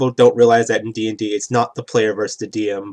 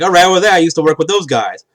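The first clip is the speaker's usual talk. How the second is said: put-on a bit higher and louder, recalling old friends; lightly voiced character; 6 semitones higher, 6 dB louder than usual. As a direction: toss it off like a streetwise local. Player character recalls old haunt.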